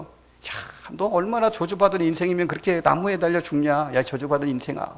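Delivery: taunting crowd voice, sneering up high; mock the man on the cross with scorn; jeering mockery. (십자가 아래 군중이 예수님을 조롱하는 비웃는 말투)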